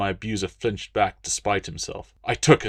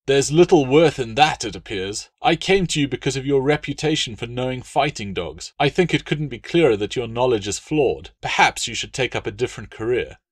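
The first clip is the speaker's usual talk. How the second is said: contemptuous legate; 3 semitones higher, 4 dB louder than usual. Acted. Latius contemptuous.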